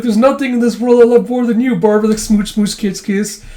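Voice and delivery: high, hammed-up declaration of love; mock lovey-dovey. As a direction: gush adoringly at a spouse. Old couple lovey-dovey, retold.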